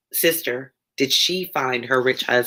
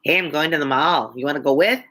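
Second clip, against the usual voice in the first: lightly hammed-up Chicago accent; mock Chicago accent on a casual invite; exaggerated Chicago accent; faster than usual. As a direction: put on your brother's Chicago talk, overdone. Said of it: "they all talk like this".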